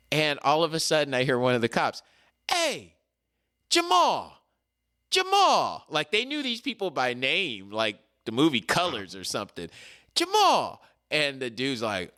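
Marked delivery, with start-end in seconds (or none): 2.5-5.8 high, ringing call of a name. Retold or imitated. Cop calling a suspect's name. 10.1-10.8 high, ringing call of a name. Retold or imitated. Cop calling a suspect's name.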